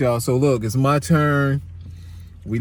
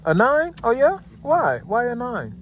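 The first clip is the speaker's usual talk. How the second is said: surprised; 10 semitones higher than usual. Real, not acted. Dad surprised by daughter's rating.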